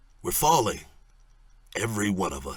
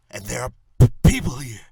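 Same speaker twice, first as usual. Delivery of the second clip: stammering, louder, voice jumping up on shoot; panicked stammer; 3 semitones higher, 6 dB louder than usual. Acted. Gunman stammering threats down the phone to Bullock.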